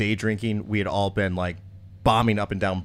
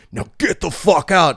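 raised, louder mock outburst; imitated angry dismissal; retold angry order; 6 semitones higher, 5 dB louder than usual. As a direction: act out a drunk guy throwing people out. Drunk guy smashes glass, orders them out.

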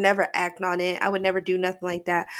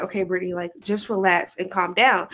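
calming self-talk. Retold or imitated. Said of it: "I had to stop and be like".

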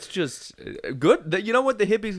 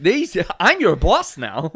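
mock boss; 4 semitones higher, 5 dB louder, slower than usual.

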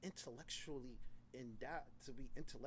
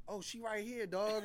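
laughing; 8 semitones higher, 5 dB louder, slower than usual. Retold or imitated. Friend quoted, laughing.

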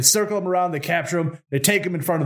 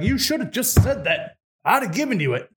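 exasperated Tsar; 6 semitones higher than usual. Acted.

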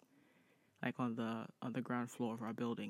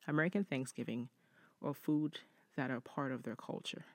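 measured read-aloud voice, lifting the start of each sentence; deliberate, well-paced reading of a written story; 3 semitones higher than usual. Acted. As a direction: read the letter out clearly, phrase by phrase. Reads listener's story.

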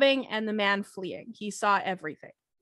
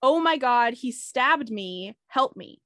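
mild, slightly raised imitation of a scream; retold scream; slower than usual. Narrator retelling what neighbors heard, mock scream. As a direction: narrate a cry for help without really screaming. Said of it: "Neighbors reported hearing a woman screaming".

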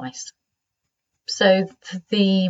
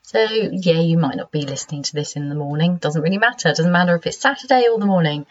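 croaky sleepy voice. Real, not acted. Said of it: "croaky, sleepy voice".

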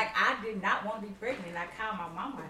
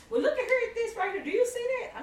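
higher doctor voice; 12 semitones higher than usual. Retold or imitated.

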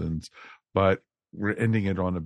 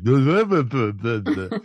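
imitated babbling; 3 semitones higher, 7 dB louder than usual. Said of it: "I was like".

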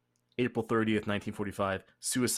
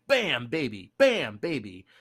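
put-on Jamaican accent; 2 semitones higher, 5 dB louder than usual. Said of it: "My Jamaican accent is not".

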